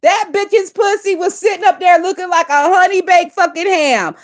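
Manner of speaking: talking around a cigarette; words past a lit cigarette; cigarette in mouth. Real, not acted. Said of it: "let me light my cigarette".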